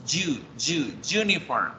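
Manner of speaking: "you, uniform" with a hard consonant Y, like ju; Y of yuca. Shown as a demonstration. Teacher models for learners, "uniform" opening juni with a hard Y. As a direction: start "uniform" on a firm yuca Y. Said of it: "como una Y de yuca".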